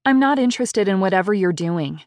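a touch of snark, brushing off a creep; lightly voiced sarcastic dismissal; snarky. Girl brushing off a stranger in a car, mildly snarky. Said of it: "Zoe said snarkily".

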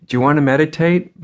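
put-on a touch of boyish excitement, quickened; excited invitation. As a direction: retell a friend's keen invitation, lightly. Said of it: "he came to me excitedly".

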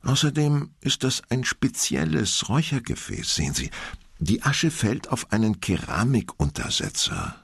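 soothing. Acted. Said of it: "Sie sprach beruhigend und sanft auf ihn ein".

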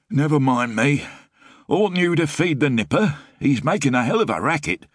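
rough, grumbling Frost voice; gruff hungover man. A narrator's reading. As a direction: deflect her like a sore-headed lodger.

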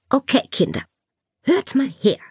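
teacher addressing the whole class, pitch rising; calling for attention. A narrator's reading. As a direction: gather the pupils' attention.

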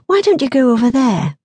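mild, friendly coaxing; friendly suggestion. A narrator's reading. Woman nudging a boy towards other children, friendly. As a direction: suggest it in a kindly way. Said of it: "she suggested in a friendly voice".

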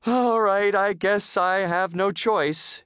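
high, slow, reluctant giving in; gulping reluctance. A narrator's reading. Missus Puff forced to choose, gulping reluctantly. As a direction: give in with dread, dragging the words. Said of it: "she gulped".

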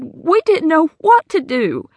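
slow, lost and weary; helpless. Acted. Hattie tells the sheriff they were stuck, slow and helpless. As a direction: let it sink, you are at a loss.

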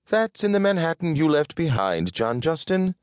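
high-voiced, fussy corrector; Winifred correcting. Winifred correcting her partner about Manhattan, high-pitched.

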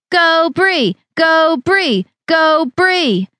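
root her on like a coach; pumped-up repeated cheer. Acted. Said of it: "cheering her on".

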